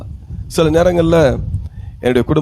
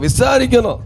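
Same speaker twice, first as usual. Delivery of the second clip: imitating a bold woman, pitched up; bold reply; 5 semitones higher than usual. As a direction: echo her bold answer on a high pitch. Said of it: "ஒரு அக்கா மட்டும் தைரியமா சொல்றாங்க". (தைரியமான பதிலைப் போலச் சொல்வது)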